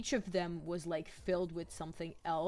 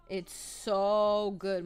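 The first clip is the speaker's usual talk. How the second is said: savoring; 4 dB louder, much slower than usual. Real, not acted. Savouring food memory.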